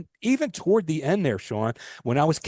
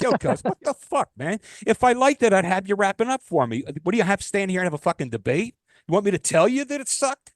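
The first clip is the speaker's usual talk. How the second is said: imagined angry retort; 5 semitones higher than usual. Retold or imitated.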